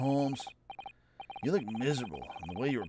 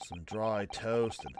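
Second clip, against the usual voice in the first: slow, fading mournful English drawl; slow melancholy English gentleman; mopey English gent; 3 dB quieter, slower than usual. Acted. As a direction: sigh out the order like a man in despair. Voicing gloomy Holmes.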